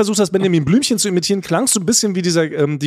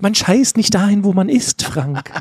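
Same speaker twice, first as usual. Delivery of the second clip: wizard; 2 semitones higher than usual. Pretend. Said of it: "So kann ich die ganze Folge sprechen".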